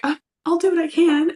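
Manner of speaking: high, quick, half-hearted promise; reluctant. Retold or imitated. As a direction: brush it off with a reluctant chirp. Reluctant reply quoted.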